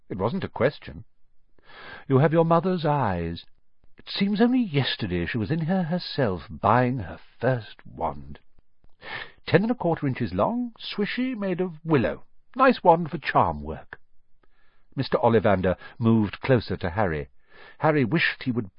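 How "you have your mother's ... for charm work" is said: lightly voiced old wandmaker, higher and lilting; a hint of a strange old shopkeeper savouring memories; eerie old wandmaker. Old wandmaker recalls the mother's wand, lightly voiced and dreamy.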